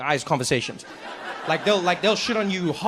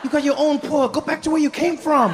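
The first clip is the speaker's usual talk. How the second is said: mocking host; 8 semitones higher than usual. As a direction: sneer at the tourist from a great height. Host mocks the tourist.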